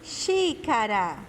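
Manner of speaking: drawn-out XÍCARA, R a light tap; weak R example. Shown as a demonstration. Teacher proves the R is weak, slow Xícara with tapped R. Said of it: "o som dele é fraco".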